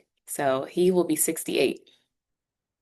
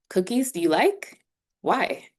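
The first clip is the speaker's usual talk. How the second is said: "like" rising sharply, then "Why" falling away; rise, then drop; 3 semitones higher than usual. Shown as a demonstration. Teacher rewording the example for students, rising question then falling why. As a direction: lift "Cookies, do you like?", drop on "Why". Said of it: "that intonation kinda drop off".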